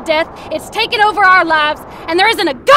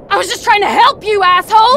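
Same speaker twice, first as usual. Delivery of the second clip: snapping, louder on the insult; angry retort; 3 semitones higher, 3 dB louder than usual. Acted. Man snapping back at the grieving widower, angry. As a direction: throw the insult back hard. Quarrel after grief lecture.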